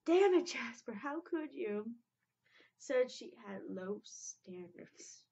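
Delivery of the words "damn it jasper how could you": furious cry of betrayal; angry outburst. Retold or imitated. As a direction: yell it at Jasper, then sink. Acting out angry cartoon line.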